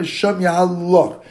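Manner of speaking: "Shem Yahal Lach" drawn out slowly; slow demonstration of "Shem Yahal Lach"; pronunciation demo. Shown as a demonstration. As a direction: stretch "Yahal Lach" to show the words. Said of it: "Don't say Shem Yom".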